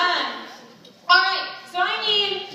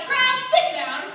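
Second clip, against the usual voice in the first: high, loud shouted command; bossy shout, pitched up; disciples' shout; 8 semitones higher, 5 dB louder than usual. A narrator's reading. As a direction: shout it as an order to a crowd. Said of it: "the disciples stopped jumping and shouted".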